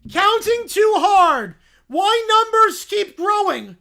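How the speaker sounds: loud, high, slow caveman shout. Acted. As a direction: bellow like a dumb caveman. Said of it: "why is it talking like a caveman".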